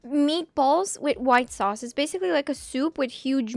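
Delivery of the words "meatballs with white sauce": slow, spelled-out reading of Meatballs with white sauce; slow dictation. Shown as a demonstration. Reading out a chat dish slowly to search for it. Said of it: "I wanna search for it".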